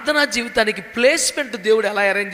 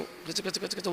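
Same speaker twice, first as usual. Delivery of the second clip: put-on much softer, lower chattering noise of a scared child; teeth chattering in fear; 3 semitones lower, 16 dB quieter than usual. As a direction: mimic a trembling kid's chatter. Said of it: "వణికిపోతున్నాడు". (భయంతో వణుకుతూ పళ్ళు కొట్టుకునే శబ్దం)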